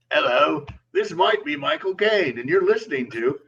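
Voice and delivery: lightly put-on Cockney podcast intro; Michael Caine. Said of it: "He does a great Michael Caine".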